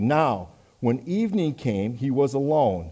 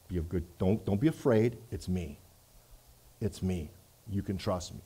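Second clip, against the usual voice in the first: gentle reassurance; 4 semitones lower, 6 dB quieter than usual. Acted. Jesus reassures the frightened disciples.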